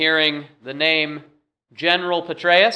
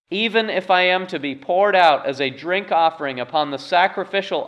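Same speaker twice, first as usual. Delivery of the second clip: measured, slightly raised reading of the text; scripture reading. Acted. Pastor reading scripture to the congregation, measured and raised. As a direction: read the verses to the church with weight.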